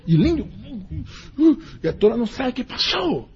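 put-on high, tearful child's voice; whimper, lost and confused. Scolded child whimpering, not knowing what happened.

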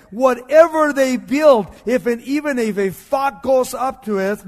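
acted outburst of rage; furious. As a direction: thunder out the enemy's threat, drawing out the opening. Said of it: "He was furious".

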